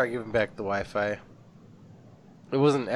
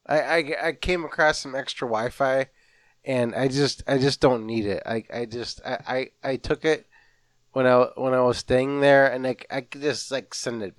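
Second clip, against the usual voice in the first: flustered caller; 3 dB louder than usual. Acted. Acted caller stammering to receptionist.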